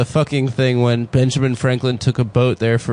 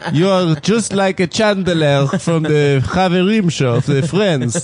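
put-on Israeli accent; 4 semitones higher, slower than usual. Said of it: "My Israeli cousins are like that too".

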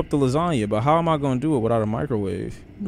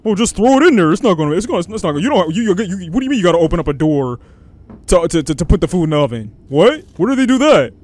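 exasperated rant; 3 semitones higher, 5 dB louder than usual. Real, not acted. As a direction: rant in disbelief. Ranting at oven logic.

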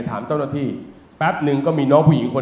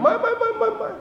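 mock denial; 5 dB quieter than usual. Comic denial of HR caring.

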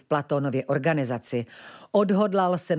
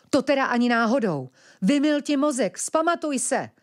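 outraged refusal; 9 semitones higher than usual. Acted. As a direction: shake her out of it, shouting. Ventilek refuses, shakes her.

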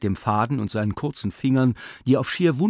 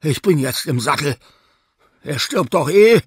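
louder and higher, driving on; agitated shout; 5 semitones higher, 8 dB louder than usual. Acted. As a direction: push through the crisis loudly. Surgeon shouting during operation.

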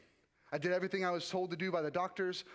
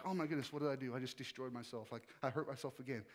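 despairing low; 4 semitones lower, 6 dB quieter than usual. Retold or imitated. Mimicking the lows.

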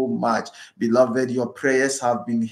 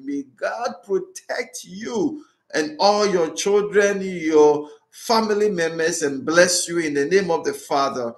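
priestly blessing. Acted. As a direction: bless them with full solemn voice. Priest gives final blessing.

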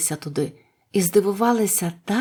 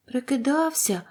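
mildly indignant, higher-pitched echo question; 5 semitones higher than usual. A narrator's reading. Dorothy to the confessed fake, mildly indignant. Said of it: "обурилася Дороті".

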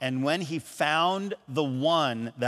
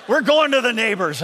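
laughing; 4 semitones higher, 4 dB louder than usual. Real, not acted. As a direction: chuckle through the words. Laughs retelling his plan.

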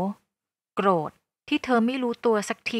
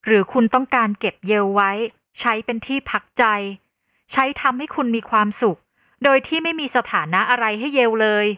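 bitter accusation; 4 dB louder than usual. Acted. Yale accusing Grace, still heated.

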